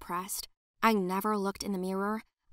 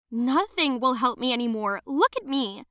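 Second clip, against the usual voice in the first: louder, hopeless cry; despairing cry; 3 semitones higher, 6 dB louder than usual. Acted. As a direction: push her away in despair. Despairing girl answers visitor.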